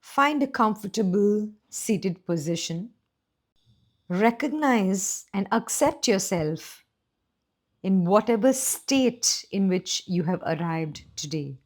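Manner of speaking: measured, unhurried meditation guide with pauses between phrases; guided meditation. Real, not acted. Teacher welcomes listeners to today's meditation, calm guided-meditation voice. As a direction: ease listeners gently into the practice.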